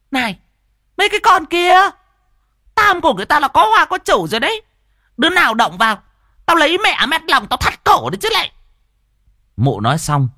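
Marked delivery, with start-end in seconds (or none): 0.1-8.5 high, loud, furious woman's voice, very fast; shrill screech. Acted. Jealous porridge seller screeching at the women groping Tam. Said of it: "nó rít lên".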